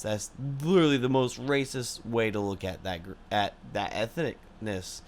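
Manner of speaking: a little tipsy, loose tongue. Real, not acted. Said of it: "I'm a little tipsy right now".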